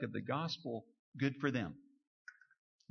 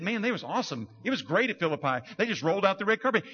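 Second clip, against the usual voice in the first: higher, quick sarcastic gushing; mock praise; 4 semitones higher, faster than usual. Pretend Paul gushing about Philippi, sarcastic. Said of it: "he said".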